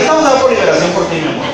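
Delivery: imitating wife's prayer. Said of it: "mi esposa se lo sabe".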